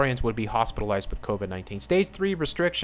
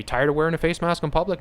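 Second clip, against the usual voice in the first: mock headline voice; 6 semitones higher, 3 dB louder, faster than usual. Mocking a headline it reads.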